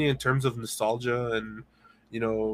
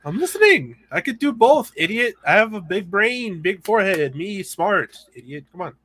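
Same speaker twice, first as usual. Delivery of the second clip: mock dumb brute; 7 semitones higher, 7 dB louder than usual.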